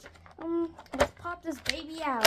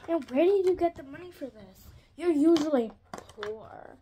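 teasing mom; 2 semitones higher, 6 dB louder than usual. Pretend. Mock question to mom.

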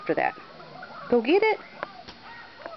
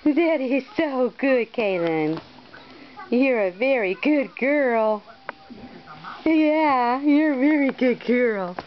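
tender praise; slower than usual. Real, not acted. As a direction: praise her gently and slowly.

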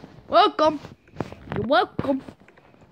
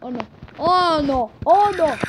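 rising louder alarm; 3 dB louder than usual. Real, not acted. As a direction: build the panic each time.

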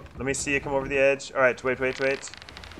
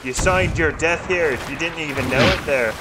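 pirate threat; 3 dB louder than usual. Pretend. Pirate threat to enemy crew.

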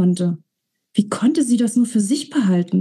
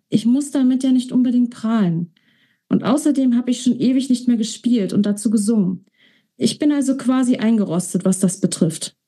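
lightly voiced young woman, modest; 3 semitones higher than usual. Sophia shyly downplays her singing to Alex. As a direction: play down your own talent, a little embarrassed.

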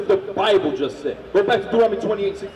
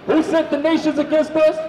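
higher, shouted rhetorical question; preaching shout; 4 semitones higher than usual. Real, not acted. Preacher demands the answer from reader, shouting. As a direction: hurl the question out to the crowd.

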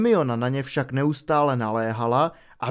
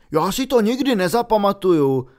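louder frustrated outburst; Ron bursting out; 5 semitones higher, 5 dB louder than usual. A narrator's reading. Ron vybuchne nad učením, hlasitě a zoufale. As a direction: throw up your hands in despair. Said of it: "vybuchl Ron".

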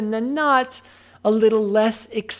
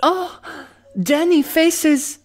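milk it like a telenovela; Spanish accent; 9 semitones higher, 3 dB louder than usual. Pretend. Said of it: "My sexy Spanish accent".

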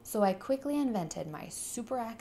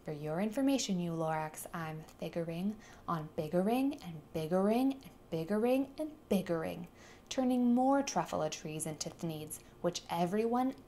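angry yell. Acted. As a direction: shout him down, pounding each word. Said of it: "I yelled at the Lorax".

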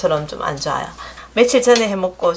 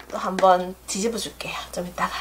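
soft aside; 5 dB quieter than usual. Real, not acted. Cooking aside while working.

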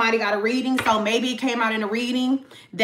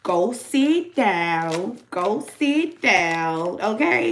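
dismissive put-down; 2 semitones lower, much slower than usual. Retold or imitated. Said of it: "You're just like".

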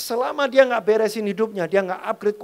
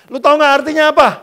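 louder and fast, demanding; loud quick challenge; 8 semitones higher, 12 dB louder, much faster than usual. Real, not acted. Preacher demanding answer from young men, loud and fast. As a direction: fire the question at them. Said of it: "preacher challenges the guys".

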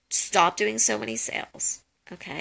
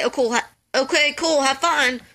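bored reply; 4 semitones higher, 3 dB louder than usual. Shown as a demonstration. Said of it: "If you just say".

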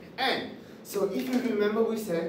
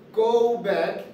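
firm request; much slower than usual. Shown as a demonstration. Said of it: "Okay, once again".

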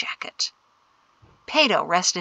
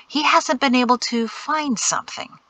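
higher-pitched, emphatic "find something"; emphasized; 5 semitones higher than usual. A narrator's reading. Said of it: "Shem emphasized".

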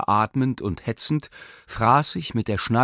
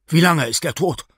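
higher, louder sharp question; exclaiming; 6 semitones higher, 6 dB louder than usual. A narrator's reading. The professor calls out to Bormental, urgently. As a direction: call it out, urgent. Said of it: "rief er aus".

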